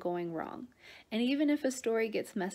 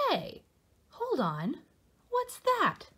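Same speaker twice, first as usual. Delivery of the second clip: surprised; 7 semitones higher, slower than usual. Acted. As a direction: caught off guard by something odd. Louie notices a stain.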